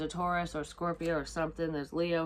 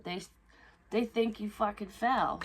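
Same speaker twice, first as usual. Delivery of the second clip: usual speaking voice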